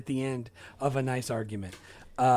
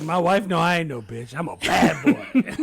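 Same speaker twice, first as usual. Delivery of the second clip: quote with laughter; 6 dB louder than usual. Retold or imitated. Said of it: "He's like".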